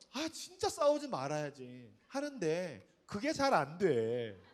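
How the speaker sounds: put-on slow, drawn-out child's confession; lightly childlike, dragging each phrase; imitated little daughter. Seven-year-old admitting to mom she fails, slow kid's delivery.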